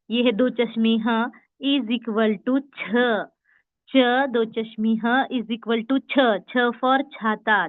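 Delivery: very slow spelled-out equation; slow sound demo. Shown as a demonstration. Teacher drilling the class on छ, very slowly. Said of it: "उसका sound हो गया च".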